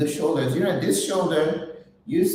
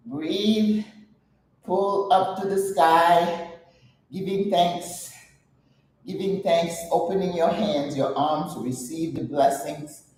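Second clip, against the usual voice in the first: guided stretch. Acted. Guiding stretch.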